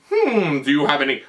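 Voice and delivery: put-on British-accented film doctor; attempted British accent. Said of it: "I can't do a British accent".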